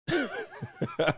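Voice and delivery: a sudden shrill squeal of a laugh, then quiet; high squeal of laughter. Real, not acted. Streamer squeals with laughter at his own bad like ratio.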